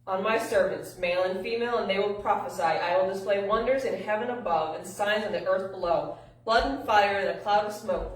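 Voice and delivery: rapid, emphatic Bible reading; fast scripture reading. A narrator's reading. Speaker reads Joel's prophecy aloud, fast and emphatic. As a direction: push through the prophecy without lingering. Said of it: "out of breath for reading that as much as I did, as fast as I did".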